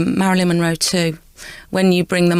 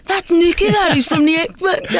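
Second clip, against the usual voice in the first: high, excited audience whisper-shout; excited fan voice; 11 semitones higher than usual. Retold or imitated. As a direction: gush like a fan who spotted her. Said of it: "they go".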